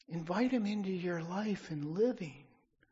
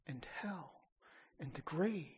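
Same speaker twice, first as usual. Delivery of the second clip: whispered; 6 dB quieter than usual. Real, not acted. List of what Jesus conquered.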